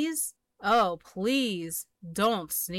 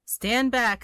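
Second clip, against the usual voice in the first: louder, firm warning; 3 semitones higher, 5 dB louder than usual. Acted. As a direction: call out stand back. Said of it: "said the elephant".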